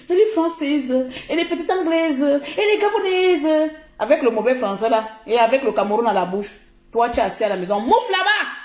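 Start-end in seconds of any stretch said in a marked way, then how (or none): 0.1-3.7 mock admiring onlooker. Streamer imitating people charmed by her accent, gushing. 7.8-8.5 high, scornful brush-off; dismissive shout. Real, not acted. Streamer shooing off a stay-at-home critic, scornful cry.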